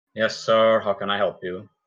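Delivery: dull, lifeless, boring flat monotone. Retelling how a man looked up and answered him, imitating a boring monotone. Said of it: "in the most boring monotone".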